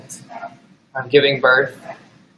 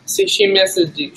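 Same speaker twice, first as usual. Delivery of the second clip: high pet talk; 14 semitones higher than usual. Pretend. Baby talk to dog.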